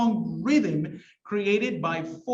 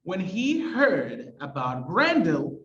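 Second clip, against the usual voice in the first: slow recital with beats on "heard" and "Grendel"; first half-line read slowly, leaning on "heard" and "Grendel"; stressed alliterative verse; slower than usual. Shown as a demonstration. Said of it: "one of the stressed syllables".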